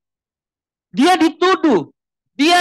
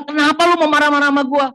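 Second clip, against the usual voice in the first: worldly retort; 7 semitones higher, faster than usual. Retold or imitated. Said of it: "bahasa duniawi ya".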